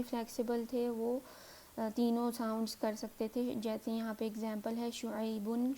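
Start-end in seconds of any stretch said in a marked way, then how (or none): 4.9-5.7 شعیبن said shu'aybun; "un" ending. Shown as a demonstration. Teacher listing three endings, شعیبن ending in "un". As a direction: end شعیبن in "bun". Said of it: "تینوں sounds آ رہی ہے".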